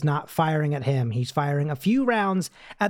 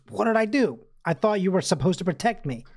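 mildly panicked plea, pitched up at the start; 2 semitones higher than usual. Retold or imitated. Recapping Freddy pleading for protection, mild panic. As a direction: imitate a panicky protest, lightly acted. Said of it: "Freddy is obviously panicking".

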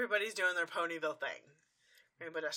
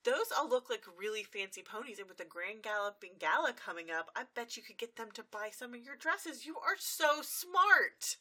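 gushing praise; 4 semitones higher, 4 dB louder than usual. Retold or imitated. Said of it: "She goes".

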